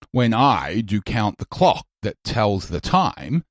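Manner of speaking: verse line with stress on "I", "count", "clock", "tells", "time"; slow recital, every second syllable stressed: "I", "count", "clock", "tells", "time"; iambic stress. Shown as a demonstration. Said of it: "unstressed syllable followed by a stressed syllable".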